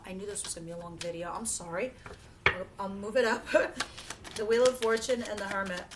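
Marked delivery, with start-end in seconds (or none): 3.5-4.3 breathy embarrassed laugh. Real, not acted. Embarrassed at the long video.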